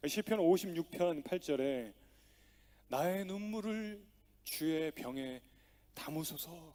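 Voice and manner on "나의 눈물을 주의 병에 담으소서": slow, solemn psalm reading; hushed prayerful reading; scripture read slowly. Acted. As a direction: lay each word down slowly like a prayer.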